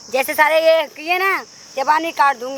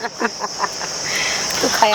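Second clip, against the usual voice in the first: mocking laugh; 4 semitones lower, much slower than usual. Mocking her jail threat.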